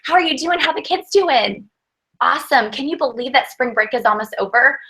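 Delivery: high, chummy phone greeting; girlfriend chat. Shown as a demonstration. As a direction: chat like her best friend. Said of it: "that girlfriend, girl next door conversation".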